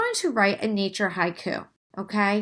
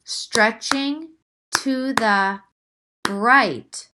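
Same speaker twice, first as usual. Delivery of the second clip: starts breathy, builds louder on bright; reading new haiku line; 3 dB louder, much slower than usual. Shown as a demonstration. Teacher reads her new haiku line. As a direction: read it like a poem you just found. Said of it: "I have an idea".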